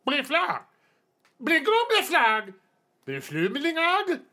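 high, slow announcer call; arena announcer. Acted. MC proclaims the blue flag to the arena, booming. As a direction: ring it out over the crowd.

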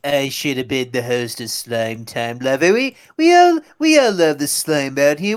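lightly voiced Trump, rambling and aggrieved; a hint of a sulking Trump; Trump impression. Podcaster keeps his Trump bit going, lightly aggrieved. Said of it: "good Donald Trump impression".

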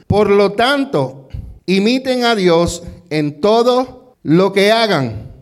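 slow, deliberate reading of the verse; slow scripture reading. Shown as a demonstration. Pastor reads the verse slowly for the church to repeat. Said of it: "¿Me pueden repetir lo que yo leí?".

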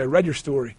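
lightly imitated South African surgeon; South African accent. Surgeon greeting his patient before the operation, South African accent. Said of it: "in his accent".

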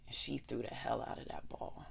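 hushed, breathy aside; whispering. Real, not acted. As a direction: whisper it with awe. Whispered emphasis.

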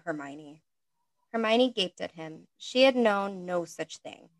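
steady, monotone read-aloud narration; monotone story reading. Acted. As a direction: read the story plainly and evenly. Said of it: "you're gonna get this monotone voice".

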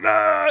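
high wordless mock yell; brief high "ah" imitating someone yelling. Partner yelling in an argument, briefly imitated. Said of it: "somebody's yelling at you".

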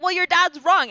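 high, loud imitation of a scolding teacher; mock yelling. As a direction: shut the child down as the retold teacher. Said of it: "she yells at me".

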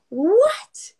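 high-pitched mock disbelief; retold delighted surprise, high and rising; astonished. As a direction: react as if it's obvious, pitch leaping up. Retold reaction to learning news.

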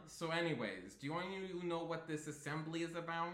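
put-on fast, faint try at a Brooklyn accent; barely-there Brooklyn accent; attempted Brooklyn accent. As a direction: rush the line in a half-hearted Brooklyn accent. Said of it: "I'm trying to do a Brooklyn accent".

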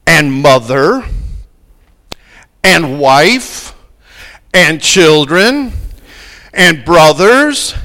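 slow, each and pressed with a pause after; emphasis on each and. Shown as a demonstration. Preacher reads the verse to the church, stressing every and. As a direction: stack the ands one by one. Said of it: "I'm putting all those ands in there to put emphasis".

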